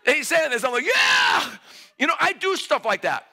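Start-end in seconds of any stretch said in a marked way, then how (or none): 0.8-1.5 very high, hammed-up yell; mock enthusiastic cheer. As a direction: cheer along in exaggerated agreement. Acts cheering along without understanding.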